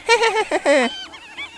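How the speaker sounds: shrill cackle of naughty trucks; high mischievous giggle. Acted. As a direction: giggle wickedly. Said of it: "The trucks giggled".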